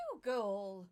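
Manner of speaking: loud alarmed call; calling the dog. Acted. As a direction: shout for the dog across the room.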